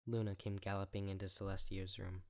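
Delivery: plain reading voice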